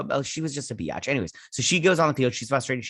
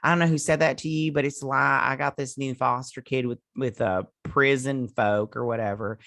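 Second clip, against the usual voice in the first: lightly imitated Southern foster mom; touch of mock Southern accent; 2 semitones higher than usual. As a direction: do a bit of a Southern twang. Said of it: "she has a Southern accent".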